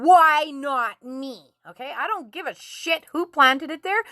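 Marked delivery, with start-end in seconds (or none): 0.0-1.5 drawn-out, wronged protest; slow, aggrieved inner-child plea; inner child's rage. Acted. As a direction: stretch each word in childlike indignation. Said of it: "holding on to all this rage and saying".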